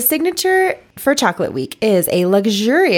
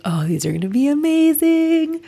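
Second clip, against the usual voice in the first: excited gush; 8 semitones higher than usual. Retold or imitated. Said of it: "I was like".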